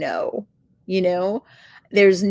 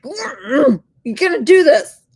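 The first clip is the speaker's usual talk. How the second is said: mock whiny cry; 8 semitones higher, 7 dB louder than usual. Frustrated self-talk, fake crying.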